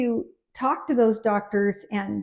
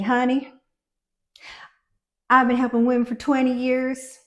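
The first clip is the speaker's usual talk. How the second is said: put-on Texas accent; 4 semitones higher, 5 dB louder than usual. Midwife quoting a stubborn Texas nurse, mild Texas accent. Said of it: "I'm gonna do a little Texas accent here".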